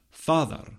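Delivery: "father" with a voiced th in the middle, as in "this"; voiced fricative. Shown as a demonstration. Lecturer presenting the reconstructed form, "father" with a voiced th. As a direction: say "father" slowly with a buzzing th. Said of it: "was then also voiced".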